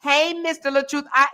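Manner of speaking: simper to flatter Mister LaTruth; mocking fawning. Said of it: "you was like".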